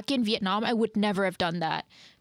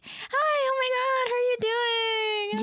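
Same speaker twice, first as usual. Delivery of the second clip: customer service voice; 14 semitones higher than usual. Retold or imitated. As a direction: gush it like a cheerful cashier. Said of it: "you gotta pull out your customer service voice".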